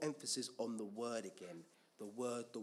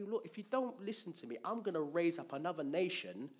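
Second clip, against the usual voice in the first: higher-pitched, insistent warning; God warning; 5 semitones higher than usual. Acted. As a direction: lay down the threat in a raised voice. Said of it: "And God would always say".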